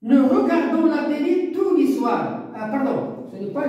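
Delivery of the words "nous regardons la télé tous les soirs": slow statement, "regardons" stressed, falling at the end; teacher modelling a statement; declarative reading. Shown as a demonstration. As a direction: read it as a plain statement that falls. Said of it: "C'est une phrase déclarative".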